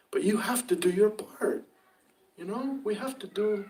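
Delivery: whispered urging. Real, not acted. Preacher whispering to his flock about their duty. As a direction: drop to a whisper to press the point home. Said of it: "whispered line".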